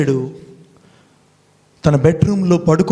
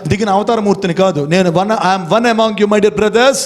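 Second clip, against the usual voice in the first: voicing a listener; 3 semitones higher than usual. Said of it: "మీరంటే".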